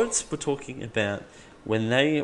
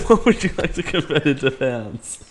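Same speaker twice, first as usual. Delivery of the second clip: laughing Siri impression; 3 semitones higher, 5 dB louder than usual. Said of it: "Coruscant Siri".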